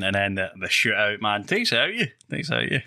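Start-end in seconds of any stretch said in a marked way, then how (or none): 1.4-2.1 lifted high on a rising, worn-out tone; mock exhausted. Tired football fan hamming up exhaustion, voice pitched higher. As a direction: play up being drained, voice climbing at the end. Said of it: "I'm gonna get lost my voice a wee touch".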